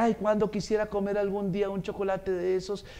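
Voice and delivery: soft, longing murmur; wistful little girl. Retold or imitated. Girl at a sweet-shop window, softly wishing for chocolate. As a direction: lightly imitate a child wishing to herself. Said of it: "como diciendo su carita en la vidriera".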